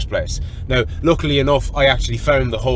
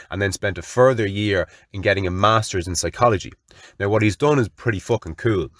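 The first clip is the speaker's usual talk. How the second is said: lower, even-paced promotional read; sponsor read; 3 semitones lower than usual. Real, not acted. Host thanking a past guest's channel, sponsor read. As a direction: deliver a measured plug, steadier than the storytelling.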